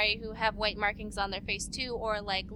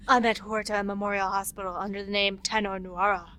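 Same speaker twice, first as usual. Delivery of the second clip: lightly voiced seductive man; sexy Thane voice. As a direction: purr it out like a smooth assassin. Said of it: "say it in his sexy voice".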